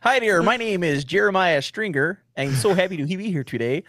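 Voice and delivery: put-on teasing host greeting in a light Jersey accent; mock Jersey accent. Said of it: "If I had a Jersey accent".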